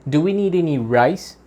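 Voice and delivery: "rice" stressed, tune rising on "need"; rising question. Shown as a demonstration. Teacher modelling the rice question for students, rising. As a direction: rise through the question to "rice". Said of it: "here we go".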